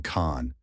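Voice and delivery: con said alone, as in conversation; stressed syllable alone. Shown as a demonstration. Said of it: "as in conversation".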